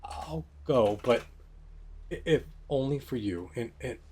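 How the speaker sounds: a touch of a break in the voice; mildly fragile, holding back tears. Acted. Irina gives in to her grieving brother, voice lightly breaking. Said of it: "it breaks ... a fragile sort of sound to it".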